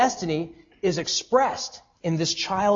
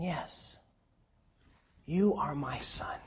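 much softer, gentle father's assurance; tender acceptance; 3 semitones lower, 10 dB quieter, slower than usual. Retold or imitated. Preacher voicing Joseph naming the child, soft and tender. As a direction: say it like a father claiming his child.

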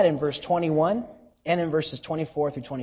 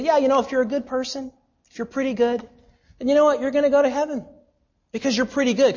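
higher, fast, glib imitation of easy optimism; mock breezy reassurance; 7 semitones higher, much faster than usual. Preacher mocking culture's belief that good people go to heaven, glibly upbeat. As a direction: parody the feel-good crowd. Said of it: "our culture is saturated with the belief that".

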